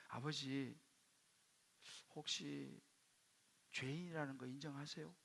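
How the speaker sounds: soft, careful question with pauses; tentative, hushed asking; hesitant question. Retold or imitated. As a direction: broach a hard question gently to your father. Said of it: "되게 말하기 어려웠어요".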